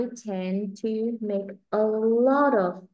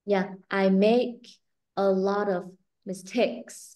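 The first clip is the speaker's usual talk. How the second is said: the right way, voice lowered; much slower than usual. Shown as a demonstration. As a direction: voice kept down, slow and smooth on "mistakes". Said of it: "Nhưng mà mình phải đè cái giọng xuống".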